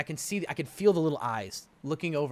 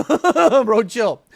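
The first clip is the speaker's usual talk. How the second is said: louder, higher bro chill; loud repeat; 7 semitones higher, 11 dB louder than usual. Shown as a demonstration. Husband repeats line to wife, louder and higher. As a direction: bark it at her to calm down. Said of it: "Bro, chill." laugh then repeat".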